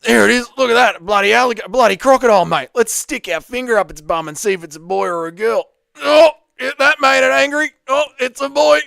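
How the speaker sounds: loud, high-pitched wildlife presenter impression; big, high Aussie croc-hunter voice; Steve Irwin. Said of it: "let me hear your Steve Irwin impression".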